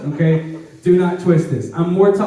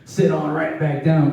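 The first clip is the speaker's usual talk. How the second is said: much softer and lower, quick embarrassed mumble; sheepish mumble; 8 semitones lower, 7 dB quieter than usual. Retold or imitated. Preacher imagining himself caught out, sheepish mumble. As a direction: back down sheepishly, almost under the breath. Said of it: "if it's me, I'm like".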